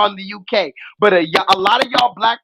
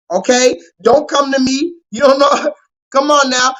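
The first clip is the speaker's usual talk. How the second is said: ordinary delivery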